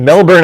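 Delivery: Melbourne with the R sounded; American pronunciation. Real, not acted. Host naming a viewer's city, Melbourne said with an American R. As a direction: say "Melbourne" with a clear R in the second syllable. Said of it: "I pronounced that with the R".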